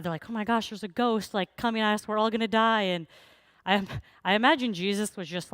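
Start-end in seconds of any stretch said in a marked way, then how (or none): 0.3-2.8 mock terrified. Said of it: "And then they're terrified".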